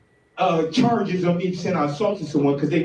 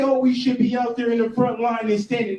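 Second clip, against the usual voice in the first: higher, shouted mockery of the crowd; mocking shout; 6 semitones higher than usual. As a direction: shout it back at them, scornful. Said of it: "And then everybody say".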